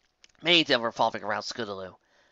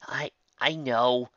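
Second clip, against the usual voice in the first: guiltily; much slower than usual. Acted. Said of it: "he said guiltily".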